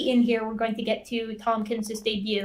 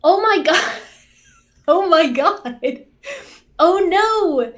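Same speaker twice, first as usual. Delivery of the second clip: loud, laughing shriek of disbelief; shrieking jackpot winner; 6 semitones higher, 10 dB louder, slower than usual. Real, not acted. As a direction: squeal it out, half laughing, stunned. Stunned by being grouped together.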